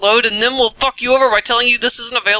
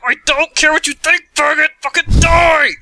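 angry yell; 2 semitones higher than usual. Retold or imitated. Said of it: "and I'm all like".

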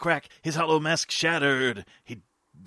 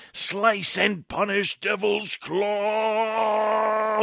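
slow incantation; 3 semitones higher, much slower than usual. Acted. Anime weapon incantation.

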